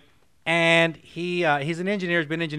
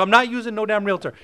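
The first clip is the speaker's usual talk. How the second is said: stubborn refusal; 4 semitones higher than usual. Retold or imitated. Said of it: "closed off feeling".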